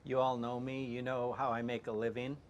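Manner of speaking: very soft, underpowered read; straight voice. Acted. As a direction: read it straight and very quietly, with little energy. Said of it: "you're doing your straight voice".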